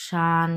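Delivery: শান on a long level pitch; sustained first-tone শান. Shown as a demonstration. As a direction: hold শান steady and even. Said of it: "এটাও প্রথম tone".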